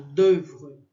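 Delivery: "d'oeuvre" with a tight, closed French eu vowel. Shown as a demonstration. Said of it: "um E bem fechado".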